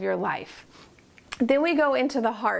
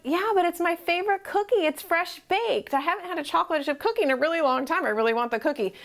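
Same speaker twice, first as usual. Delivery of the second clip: mildly whiny, higher pleading for the cookie; pleading self; 4 semitones higher, faster than usual. Retold or imitated. Answering the inner critic, lightly pleading for a fresh cookie. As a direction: beg for it like a craving kid. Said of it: "And you're like".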